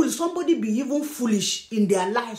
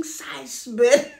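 gloating laugh. Real, not acted. Gloating over a rival.

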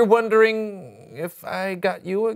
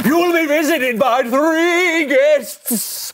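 exaggerated cartoon intonation; 5 semitones higher, slower than usual. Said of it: "Why are you talking like that?".

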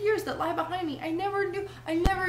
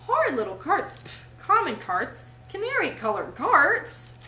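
grandiose rapture; 7 semitones higher, 3 dB louder than usual. A narrator's reading. Toad dreams of flinging carts in ditches, grandiose rapture. Toad rhapsodizes over his motoring future.

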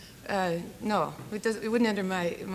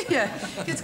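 laughing; 3 semitones higher, 4 dB louder than usual. Real, not acted. Laughing after host's joke.

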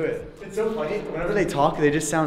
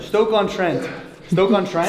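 British accent; 5 semitones higher, 7 dB louder, slower than usual. Shown as a demonstration. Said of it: "Say it in a British accent".

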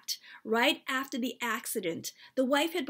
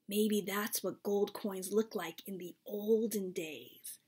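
whispered; 2 semitones lower, 5 dB quieter than usual. Acted. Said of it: "Lissy whispered to me".

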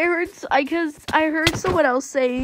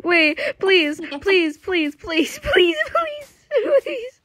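begging; 5 semitones higher, slower than usual. Real, not acted. Begging repeatedly, rising.

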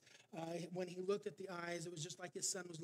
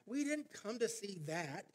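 louder, higher heckle from the back; impatient bidder shouting, building louder; angry shout; 5 semitones higher, 7 dB louder than usual. Retold or imitated. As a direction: yell at the auctioneer to move on. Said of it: "Another angry voice shouted from the back".

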